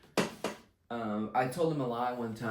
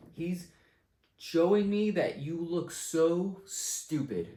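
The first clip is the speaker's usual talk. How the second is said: mocking high voice; 6 semitones higher, 3 dB louder, much slower than usual. Real, not acted.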